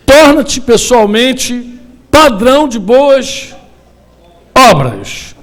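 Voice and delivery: slow, stretched scripture recital; measured reading of scripture; slow verse recital. Acted. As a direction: pronounce the verse slowly, word by word.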